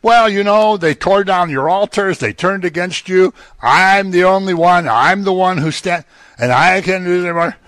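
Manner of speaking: high-pitched, aggrieved protest; acted complaint. Acts out Elijah's repeated complaint to God.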